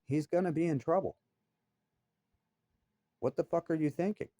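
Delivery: rising from pointed question to a high, heated scold; retold confrontation. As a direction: build from a needling question into an outraged scold. Confronting boss about his worker.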